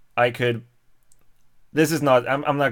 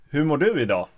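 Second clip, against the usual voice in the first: own-dialect Swedish, lifted on DU; 3 semitones higher, faster than usual. Shown as a demonstration. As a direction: ask it in your everyday non-northern Swedish. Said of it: "it would be more like".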